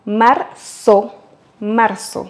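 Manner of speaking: Marzo with the Z as a sharp S, Latin American style; Latin American accent. Shown as a demonstration. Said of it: "comme s'il y avait deux S".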